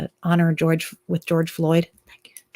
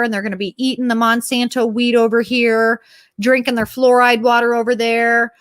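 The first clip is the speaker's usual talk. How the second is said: higher-pitched sarcastic gushing; mock excitement; 4 semitones higher than usual. Imitating an excited Davos speaker's promises, mock gushing. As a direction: gush through the list with false enthusiasm. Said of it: "talking about how excited she is".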